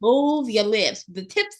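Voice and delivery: mock diction coach drawing out "Move your lips"; exaggerated enunciation. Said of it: "the tongue enunciate".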